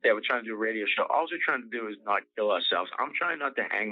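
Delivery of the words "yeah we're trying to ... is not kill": fast, flat mocking echo; sarcastic mimic. Mocking the listener who wrote in about the radio show. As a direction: toss off the idiot's words.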